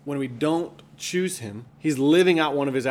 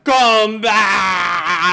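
whale speak; 7 semitones higher, 8 dB louder than usual. Acted. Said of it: "this is not whale".

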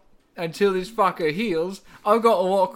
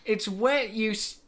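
mock British; 4 semitones higher than usual. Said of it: "do a British accent".

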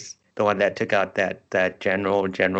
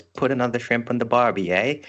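mock Australian stereotype; 4 semitones higher than usual. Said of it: "no one ever says".

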